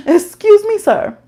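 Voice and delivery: a sassy, laughing excuse me sir; sassy indignation. Retold or imitated. Retold indignant retort after hang-up.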